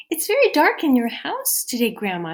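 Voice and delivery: put-on wide-eyed child noticing the dark; girl's voice. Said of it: "said Little Red Riding Hood".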